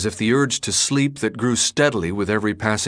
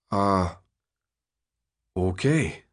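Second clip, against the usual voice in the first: slow; 2 semitones lower, 3 dB quieter, slower than usual. A narrator's reading. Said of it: "Newt said slowly".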